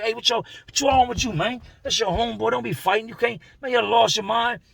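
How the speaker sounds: high, urgent pleading; high-pitched panicked protest; alarmed shouting. Retold or imitated. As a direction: pull your friends apart with your voice. Homeboys breaking up a fight.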